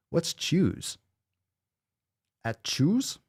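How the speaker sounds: high, soft puzzled questions; baffled, asking about the odd word; confused high query. Real, not acted.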